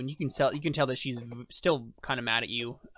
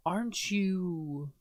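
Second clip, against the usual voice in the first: suspicious guard; 6 semitones higher, much slower than usual. Acted. Guard's suspicious half question.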